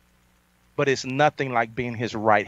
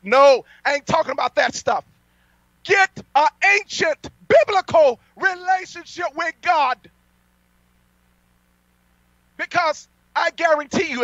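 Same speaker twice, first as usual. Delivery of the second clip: preaching at full force; 12 semitones higher than usual. Acted. Preacher defying NBC and the syndicates, fiery preaching. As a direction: thunder it at the enemies from the pulpit.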